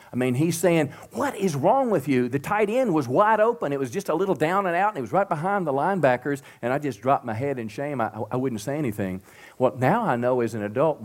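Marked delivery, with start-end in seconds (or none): 1.1-6.4 retold coach yelling, higher-pitched; livid coach. Football coach scolding the quarterback on the sideline, retold higher-pitched yell. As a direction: imitate the angry coach chewing out his quarterback. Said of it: "the coach was livid".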